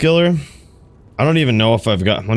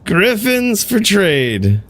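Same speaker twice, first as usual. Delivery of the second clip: mock trade call; 6 semitones higher, much slower than usual. Shown as a demonstration. Calling out trade offer twice.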